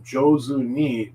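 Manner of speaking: jozu ni drawn out slowly, JOH-zoo nee. Shown as a demonstration. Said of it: "means to do something well".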